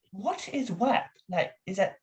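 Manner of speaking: high, puzzled London doctor; Doctor Cromwell. Acted. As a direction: draw out the question, baffled by the slang. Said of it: "His name is Doctor Cromwell".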